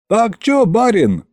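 high-pitched call; shout from the crowd. A narrator's reading. Townsman asks the master on the barrel, shouting. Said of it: "крикнул кто-то из толпы".

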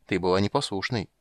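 ordinary delivery

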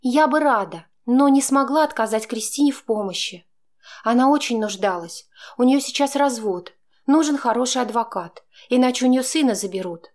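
Chaika, babbling defensively; rattling off excuses. A narrator's reading. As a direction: gabble out the excuses. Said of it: "Начала она тараторить, оправдываясь".

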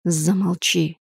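low, hushed menace; angry whisper. A narrator's reading. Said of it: "послышался злой шёпот". (злой шёпот, ниже и тише)

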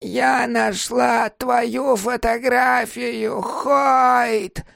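put-on very slow, high, creaking old woman; confused mother-in-law calling out, creaky and slow. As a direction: drag it out like a madwoman. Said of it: "скрипучим голосом проговорила она".

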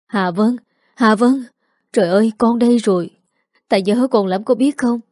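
lightly acted sobbing reunion, pitch lifting on some cries; a touch of weeping, overcome with longing; mild tearful outburst. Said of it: "rồi khóc nức nở". (giọng mếu máo, xúc động nhẹ)

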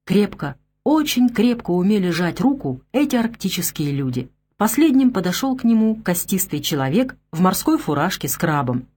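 usual speaking voice

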